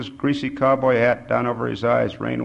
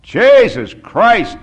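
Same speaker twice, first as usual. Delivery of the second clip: very loud, high, drawn-out exclamation; shouted oath; 9 semitones higher, 12 dB louder, much slower than usual. A narrator's reading. Bisou erupts at the kneeling old man, shouting. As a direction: holler it slowly, each word stretched. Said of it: "Bisou shouted".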